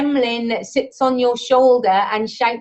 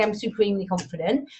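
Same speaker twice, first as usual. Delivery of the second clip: softer, quick throwaway "I'm supremely confident"; dismissive aside; 4 semitones lower, 6 dB quieter, faster than usual. Retold or imitated. Trainer brushes off the overblown affirmation, softer and quick. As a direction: toss it off as something you needn't say. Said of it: "You don't have to say".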